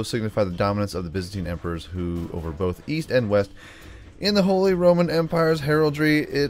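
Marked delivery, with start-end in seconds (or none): 4.2-6.5 put-on reading voice. Host reading heraldry history aloud, raised put-on voice. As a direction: read it out high, then let it settle. Reads encyclopedia text aloud.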